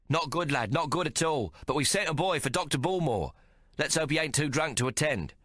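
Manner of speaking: high jovial proprietor voice; lightly voiced jolly chef; hearty chef. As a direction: boom it out cheerfully. Jovial chef owner speaking.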